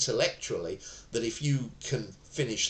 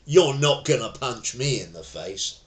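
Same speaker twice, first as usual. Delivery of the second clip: defiant retort; 8 dB louder than usual. Shown as a demonstration. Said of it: "never ever say to the person".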